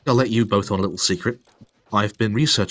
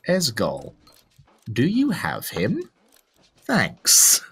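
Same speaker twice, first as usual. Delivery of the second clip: overly polite; 2 semitones lower, slower than usual. Shown as a demonstration. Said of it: "I'd say be polite. Say".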